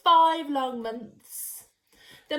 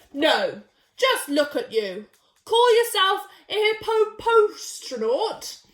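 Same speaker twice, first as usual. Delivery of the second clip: pompous hippo; 4 dB louder than usual. Acted. Rival hippo scolds Sheila.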